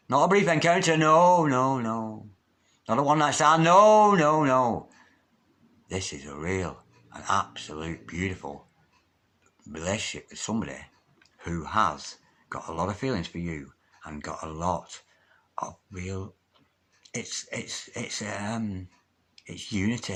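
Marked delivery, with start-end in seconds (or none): 1.0-2.3 drawn-out no, falling away; emphatic refusal. Real, not acted. Emphatically ruling out brief encounter. 3.6-4.9 loud, high drawn-out no, then falling; emphatic refusal. Real, not acted. Emphatically ruling out one-night stand. 5.9-20.1 soft, low, halting delivery; quiet, slow earnestness with searching pauses; hushed sincerity. Real, not acted. Softly describing a real, loving relationship.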